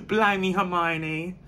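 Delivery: high, drawn-out mock-British exclamation; British accent. Reading Harry Potter out loud, slow high British accent. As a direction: stretch it out in a playful British accent. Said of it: "I do the accent and everything".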